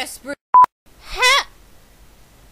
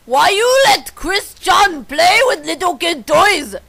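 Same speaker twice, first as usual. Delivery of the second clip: shouted scolding; 4 dB louder than usual. Acted. Repeats the scolding line, louder.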